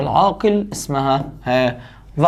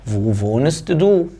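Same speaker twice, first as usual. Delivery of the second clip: slow dictation; 3 semitones lower, much slower than usual. Shown as a demonstration. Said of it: "slow model of the question".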